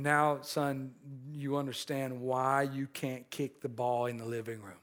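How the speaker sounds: calm and gentle. Retold or imitated. Father gently reassuring his upset son, calm. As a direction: settle the boy down gently. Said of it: "very calmly".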